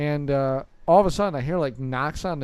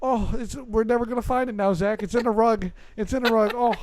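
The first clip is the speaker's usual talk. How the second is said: fretting grandpa; 5 semitones higher than usual. Retold or imitated. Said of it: "like, yelling for it".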